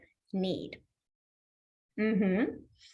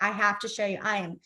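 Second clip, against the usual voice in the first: dramatic apology; 3 semitones lower than usual. Shown as a demonstration. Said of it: "pretend like you're in a drama or in a play".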